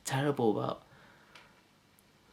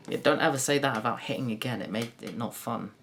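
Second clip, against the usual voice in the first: ordinary talk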